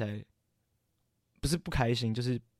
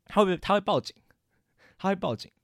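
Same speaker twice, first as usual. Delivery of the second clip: alarmed exaggeration; 8 semitones higher, 4 dB louder than usual. Real, not acted. Imagining he'd call the police.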